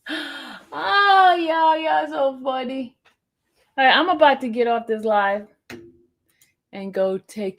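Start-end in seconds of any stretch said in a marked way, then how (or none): 0.1-3.0 high, laughing mock voice; high-pitched laughing imitation; mimicking her. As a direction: squeal it like a giggly fan. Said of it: "She said".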